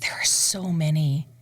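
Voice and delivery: whispered, overwhelmed; breathy whisper. Real, not acted. Singer asked for favorite opera, whispered. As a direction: whisper it to yourself, a bit overwhelmed.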